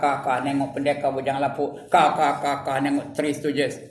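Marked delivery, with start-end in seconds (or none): 1.9-2.4 mock laughter. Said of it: "Ketawa je kerjanya".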